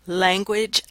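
"Language" with the vowel of "cat"; first of three contrasts, "Language" with a cat vowel; short-a pronunciation. Shown as a demonstration. Lecturer comparing options for listeners, "Language" with the cat vowel. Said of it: "have an a in that position".

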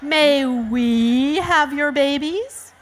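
sugary storybook request; asked sweetly. Acted. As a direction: ask sweetly, like hopeful pandas. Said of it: "the pandas asked sweetly".

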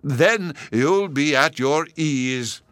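shouted. A narrator's reading. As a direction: bellow it to the whole hall. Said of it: "addressed them in a loud voice".

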